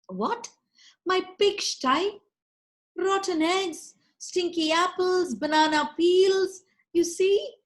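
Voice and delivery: high, outraged disbelief at the pig; shocked disbelief. Acted. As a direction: squeal it in disgusted shock. Meenakshi shocked by pigsty smell.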